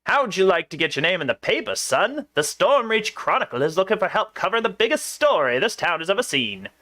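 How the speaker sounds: lightly voiced newspaper hawker; a touch of newsy recruiting pitch; newsy reporter. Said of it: "gruff newsy".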